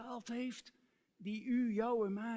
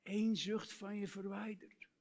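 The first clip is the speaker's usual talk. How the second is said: intimate whisper. Acted. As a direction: whisper it close, like a secret. Intimate close of sermon.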